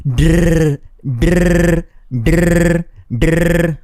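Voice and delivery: voiced rolled "Drr" with tongue trill; rolled r exercise. Shown as a demonstration. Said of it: "try using your voice to say it out".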